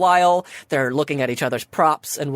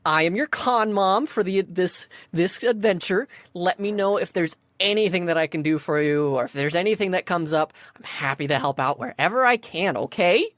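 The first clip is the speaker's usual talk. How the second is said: lightly raised, proud announcement; cheerful sphinx host; 4 semitones higher than usual. Acted. Sphinx Baruch welcoming winners as their con mom, lightly cheerful. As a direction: congratulate them like a friendly con mom. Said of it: "she opens the door and she goes".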